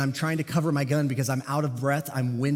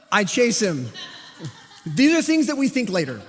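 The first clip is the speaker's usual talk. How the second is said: laughing; 6 semitones higher, 5 dB louder than usual. Real, not acted. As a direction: chuckle through the words. Laughing retelling the chase.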